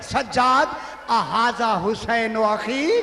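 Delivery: a sister calling her nephew to look; calling out to Sajjad. Acted. Zainab calls out to Sajjad, loud and slow.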